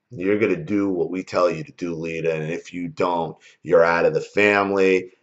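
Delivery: ordinary talk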